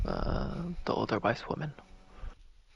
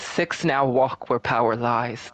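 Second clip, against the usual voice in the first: slow, loud prophetic intoning; otherworldly voice; 5 dB louder, slower than usual. Acted. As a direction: declaim it like a possessed oracle. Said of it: "shouts out in this otherworldly voice".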